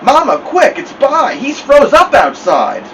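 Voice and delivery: high, loud call for help; alarmed child calling Mama; urgent alarm. A narrator's reading. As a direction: burst in with urgent news.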